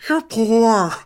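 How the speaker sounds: high, sneering put-down; mocking a friend's taunt, high and sneering. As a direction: spit it out with contempt. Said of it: "always telling him".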